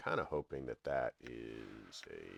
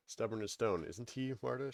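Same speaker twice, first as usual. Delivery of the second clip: higher, louder scolding crone voice; scolding a child; 7 semitones higher, 3 dB louder than usual. Acted. Crone scolds the corpse like a small child, higher and louder. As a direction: wag a finger and lecture like to a small child. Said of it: "lecturing a small child".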